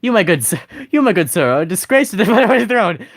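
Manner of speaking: pompous British insult breaking into laughter; mock British accent. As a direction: play an indignant British noble, cracking up.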